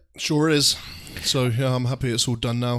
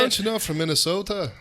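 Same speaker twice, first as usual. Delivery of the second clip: put-on Minnesota accent; 6 semitones higher than usual. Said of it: "the Minnesota one".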